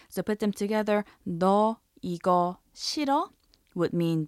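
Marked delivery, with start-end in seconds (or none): 1.2-3.3 너 이거 싫어 with 싫어 rising at the end; 끝을 올려서; rising question. Shown as a demonstration. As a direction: ask 너 이거 싫어 with a lift. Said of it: "raise the intonation at the end".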